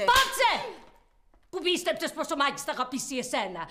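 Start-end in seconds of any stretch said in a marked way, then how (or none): 0.1-0.5 sudden high, loud shout; furious outburst. Acted. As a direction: cut them off with an angry yell. Acted quarrel, boss erupts.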